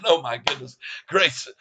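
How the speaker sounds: breathless after singing; panting a little; out of breath. Real, not acted. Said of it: "I'm running out of breath".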